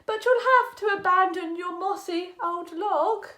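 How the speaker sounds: stressed youll, firm but friendly dog; dog telling frog to leave the log; dog's condition. Acted. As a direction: set the condition plainly. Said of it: "said the dog".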